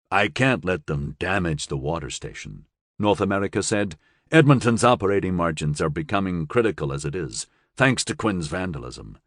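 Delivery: level-headed commander weighing risk; North America. Acted. North America speaks to colleague.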